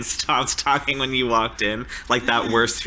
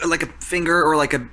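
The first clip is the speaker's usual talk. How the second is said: higher, stumbling, nervous voice; Mark flustered; 3 semitones higher than usual. Acted. Nervous Mark tells the counselors about the hand, flustered. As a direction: fumble for the words, rattled.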